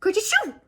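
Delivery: high, loud mock sneeze; sudden sneeze from hiding; acted sneeze. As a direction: burst out a little rabbit sneeze. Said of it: "Peter sneezed".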